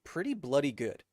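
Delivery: lightly imitated Australian accent; hint of Aussie accent. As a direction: quote an Aussie friend. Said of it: "I tried it for her".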